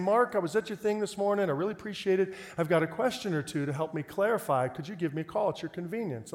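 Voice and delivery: lightly imitated sweet caller; a touch of kindly politeness. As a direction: leave a gentle, gracious voicemail. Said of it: "this very sweet, kind voice saying".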